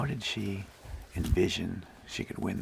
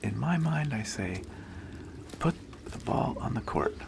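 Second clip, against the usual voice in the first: put-on Italian accent; 3 semitones higher than usual. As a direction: lightly voice the Italian player's answer. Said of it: "In her Italian accent".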